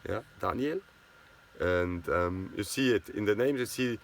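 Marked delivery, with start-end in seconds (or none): 0.4-0.8 Daniel with a soft t-like D and an open a, TAHN-yel; Swiss German Daniel. Shown as a demonstration. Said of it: "it's Daniel".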